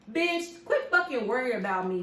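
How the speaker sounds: high, loud snapping retort; angry outburst. Retold or imitated. Telling off the nosy boss, loud and angry. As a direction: blow up at her.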